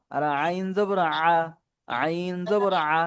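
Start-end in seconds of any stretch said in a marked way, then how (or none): 1.9-3.0 আইন জবর আ with the আ squeezed from a tight throat; slow, throat-pressed আ after আইন. Shown as a demonstration. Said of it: "গলা চেপে বলতে হবে".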